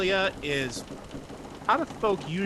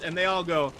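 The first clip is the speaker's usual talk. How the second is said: usual speaking voice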